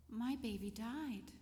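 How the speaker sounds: slow, heavy retelling of painful words; pained. Retold or imitated. Mother telling nurse her baby died, slow and pained. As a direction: let each word weigh, slowly. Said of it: "was so painful".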